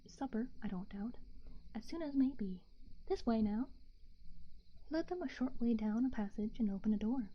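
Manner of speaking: hushed bedtime story narration; whispered story reading. A narrator's reading.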